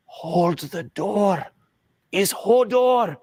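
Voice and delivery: drawn-out, rising high with growing excitement; slow, climbing Hodor reveal; excited revelation. Retold or imitated. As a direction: mimic a man carried away by his favourite show. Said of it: "starts going nuts".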